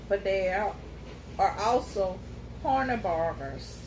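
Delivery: unhurried storyteller cat, grave; lightly voiced wise cat.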